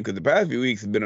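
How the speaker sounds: choking on coffee mid-sentence; coughing on a sip of coffee. Real, not acted. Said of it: "I'm fucking choking on coffee here".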